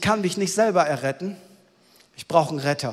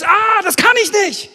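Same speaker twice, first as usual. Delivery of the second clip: higher and louder, a hammed-up cry of despair; mock alarmed wail, higher and louder; dismayed inner voice; 7 semitones higher, 6 dB louder than usual. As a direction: act out the shock of realising you can't do it. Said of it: "dann bist du erschrocken".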